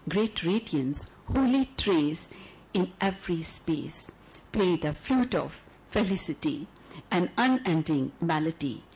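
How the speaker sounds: measured, lyrical poem reading; poetry recital. Acted. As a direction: read it like a love letter to the audience. Recites Eternal Saga poem.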